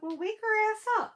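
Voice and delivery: high, loud exasperated retort; retold exasperation. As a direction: re-enact an impatient mother's order. Mother retells exasperated order to daughter.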